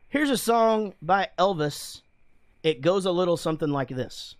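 mock a cheesy bandleader; lounge band announcer. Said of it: "I don't like when a band goes".

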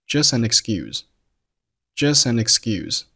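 "just an excuse" run into one; linked "just an excuse". Shown as a demonstration. Teacher demonstrating "just an excuse" linked up. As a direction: join all three words of "just an excuse". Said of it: "三个单词连读成了".

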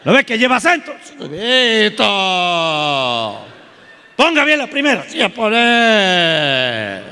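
high, harsh yelling father teaching math; a father shouting sums at his son; angry father drilling. Retold or imitated. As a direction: bark the lesson like a furious dad.

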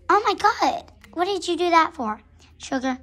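high, loud indignant outburst; outraged protest. Acted. Hurt horse confronts Sugar, loud high outrage. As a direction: cry out in protest at being hurt.

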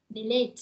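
"delete" as de-LETE, second syllable punched; stress on second syllable. Shown as a demonstration. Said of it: "nhấn âm hai ha".

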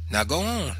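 high motherly order; urging mother. A narrator's reading. Mother sending son back out, high urging.

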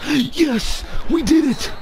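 real victory yell; excited cheer. Real, not acted. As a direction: yell it like you just won. Winning the match.

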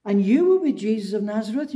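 a hint of a squeaky little accuser; little squeaky girl. Servant girl pointing Peter out, lightly squeaky. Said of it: "a little squeaky voice".

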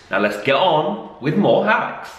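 put-on slow, lilting kids' presenter segue; children's TV presenter. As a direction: lead the children on to the next segment. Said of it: "Will I ever be a children's T V presenter?".

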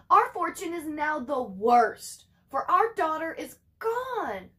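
slow, lightly voiced lament; grieving mother. Mother grieves her missing daughter, slow mild lament. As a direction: let the loss slow the words. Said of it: "shrieking cat".

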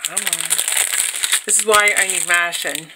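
words muffled round a stamp package held in teeth; talking with something in mouth. Real, not acted. Tearing a package open with her teeth, talking around it. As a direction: mouth full, muttering through it. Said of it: "sorry, it's, like, in my mouth".

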